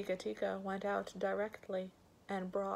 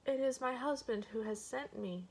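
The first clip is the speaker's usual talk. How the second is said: higher-pitched, mildly frightened reply; trembling; 5 semitones higher than usual. Acted. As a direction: answer as a scared wife, pitched up. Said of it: "trembling all over".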